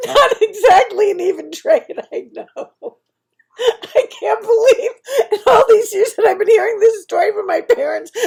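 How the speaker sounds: high, loud laughing cry; helpless giggling sobs at a horrible thought; laughing through tears. Real, not acted. Vlogger cracking up at her own dark joke, laughing through tears.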